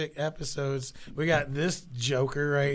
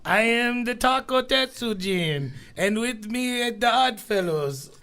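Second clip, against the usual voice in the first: lucha libre announcer; 7 semitones higher, 5 dB louder than usual. Acted. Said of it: "like, a Mexican lucha libre announcer".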